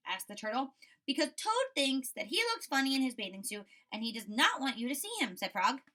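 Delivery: lively storybook read-aloud; reading to children. A narrator's reading. Teacher reading Frog and Toad to her class, lively storybook voice. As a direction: read it bright for young kids.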